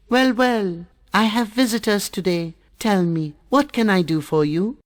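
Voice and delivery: put-on high, quick, chirpy old fish voice; Wise Fish. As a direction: greet the visitors brightly and quick.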